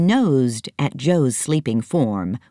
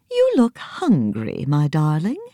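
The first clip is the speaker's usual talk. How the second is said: elephant voice; 2 semitones higher than usual. Acted. Elephant fussing over hungry Nancy, lightly voiced. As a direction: coo it over the child. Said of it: "she said".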